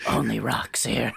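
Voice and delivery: deep rumbling gravel voice; low gravel vigilante growl. Acted. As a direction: growl it low like rocks grinding. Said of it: "Gravel voice".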